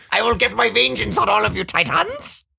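high crying shout; anime vengeance cry. Acted. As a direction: scream it like a wounded anime hero.

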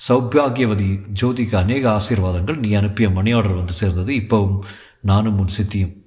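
measured, even storytelling read; story narration. A narrator's reading. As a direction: read the thriller steadily to listeners. Reads the novel aloud.

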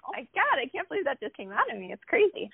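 high, breathless disbelief over the newborn; a mother's amazed high cry at first sight of her baby; amazed excited gasp. Retold or imitated. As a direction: squeal it like you can't believe it. New mother seeing her baby.

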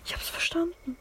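annoyed breathy whisper. Real, not acted. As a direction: hiss it back, fed up. Annoyed at game instructions.

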